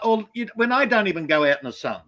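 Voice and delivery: put-on lightly done Aboriginal Australian accent; a hint of an Aboriginal Australian accent. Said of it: "doing the Aboriginal accent".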